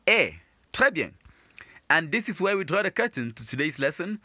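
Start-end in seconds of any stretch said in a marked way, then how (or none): 0.1-0.4 A said as the French "air" vowel; the "air" sound. Shown as a demonstration. Teacher answering how to pronounce them, A as the "air" sound. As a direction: give A alone as the "air" sound. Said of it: "make sure you pronounce them as what?".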